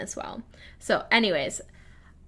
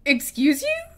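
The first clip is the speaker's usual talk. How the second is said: affronted; 5 semitones higher, 5 dB louder than usual. Retold or imitated. Affronted by pop-up banner.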